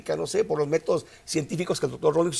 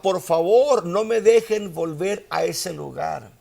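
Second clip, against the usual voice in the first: preacher acting out a dying man begging; half-acted desperate begging, pitched up; retold screams; 2 semitones higher than usual. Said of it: "Y este hombre gritaba".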